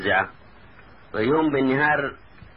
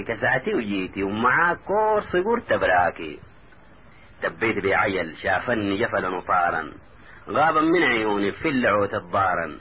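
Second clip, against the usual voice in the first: rhythmic narrative poem, rhyme by rhyme; verse recitation. A narrator's reading. Taha recounts his dream to his cousin, recited. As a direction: recite the tale in steady cadenced lines.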